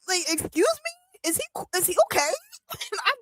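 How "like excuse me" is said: incredulous. Real, not acted. Reacting to show cut off.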